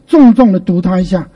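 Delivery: 重重 said with heavy weight; stress on 重重. Shown as a demonstration. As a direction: punch 重重 as you read. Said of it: "什么叫重读".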